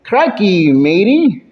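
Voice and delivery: put-on amateur Australian dwarf accent; hammed-up, slightly shaky attempt at Australian. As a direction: try a bit of an Australian accent. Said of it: "Australian accent".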